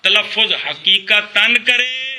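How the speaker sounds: drawn-out phrase for repeating; feed it slowly to the class; measured, word-by-word teacher delivery; slow dictation. Real, not acted. Teacher models phrase for students' repetition.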